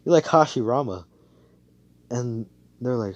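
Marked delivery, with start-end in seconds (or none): 0.1-1.0 loud, high-pitched taunt; gleeful jeer, played up; mocking laughter. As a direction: crow over the losers with a "Ha". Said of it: "Asa just laughing over here like".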